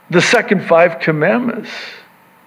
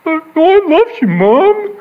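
put-on child voice; 11 semitones higher than usual. Child answering mom.

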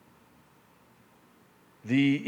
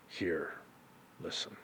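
whispered, much softer; 6 semitones lower, 13 dB quieter than usual. Shown as a demonstration. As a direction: breathe it out in a hush. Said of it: "drops to a whisper".

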